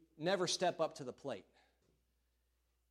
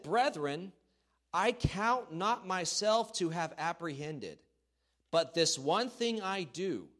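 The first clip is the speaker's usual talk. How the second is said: scripture reading; 3 dB louder, slower than usual. Acted.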